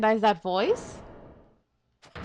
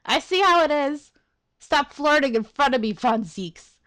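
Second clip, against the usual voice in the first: mock jealousy; 5 semitones higher, 7 dB louder than usual.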